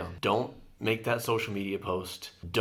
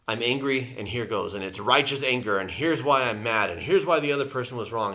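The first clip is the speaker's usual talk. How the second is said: louder, building mock outrage; a hammed-up rant of grievances; mock righteous anger; 5 dB louder than usual. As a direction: imitate someone justifying their anger. Voicing the alpha angry mindset.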